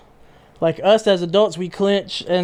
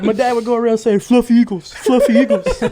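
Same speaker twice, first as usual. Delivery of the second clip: put-on Philadelphia accent; 5 semitones higher, 4 dB louder than usual. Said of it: "those types of accents".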